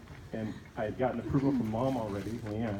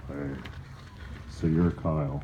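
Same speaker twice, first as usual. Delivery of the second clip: imitating uncle; 7 semitones lower, slower than usual. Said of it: "he goes".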